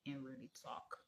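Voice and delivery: talking through a sore, numb mouth; barely opening the mouth, whispering in pain; toothache. Real, not acted. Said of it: "I can't open my mouth and really talk".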